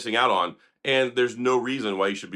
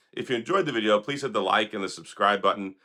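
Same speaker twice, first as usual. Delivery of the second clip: normal talking voice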